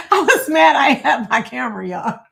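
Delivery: bursting into a high laugh. Real, not acted. Grandma recalling grandson's shoes, laughing. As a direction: laugh out the memory.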